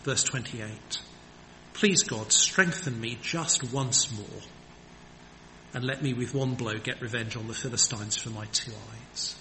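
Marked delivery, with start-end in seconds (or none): 1.7-9.3 humble plea. Retold or imitated. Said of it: "Notice what he prays".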